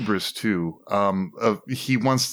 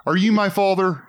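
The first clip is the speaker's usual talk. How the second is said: laughing mock question; 10 semitones higher, 3 dB louder than usual. Joking riff on The Father.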